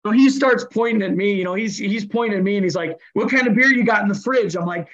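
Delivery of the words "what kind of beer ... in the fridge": mock yelling. Opposing player fakes a fight for the fans, mock yell. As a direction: fake a fight for the crowd while saying something friendly. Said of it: "we're yelling and screaming".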